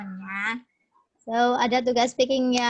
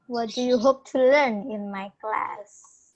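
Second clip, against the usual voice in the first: slowed down, each word spelled out; slow clear repeat; 2 semitones lower, slower than usual. Shown as a demonstration. Teacher repeats the question slowly for a student.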